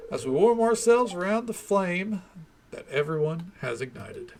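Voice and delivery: lightly voiced small-town mayor, a bit formal; mayor's speech. Streamer reading the mayor's New Year speech, lightly voiced and formal. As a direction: address the townsfolk like a proud mayor at a ceremony.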